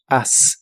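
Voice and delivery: "us" with a normal Spanish A sound and a clear S; Aussprachedemo. Shown as a demonstration. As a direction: say "us" as an open "as", ending on S. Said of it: "se pronuncia con un sonido A normal y un sonido S".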